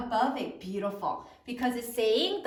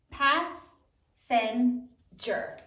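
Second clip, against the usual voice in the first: slow syllable demo; much slower than usual. Shown as a demonstration. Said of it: "make sure your spelling looks like".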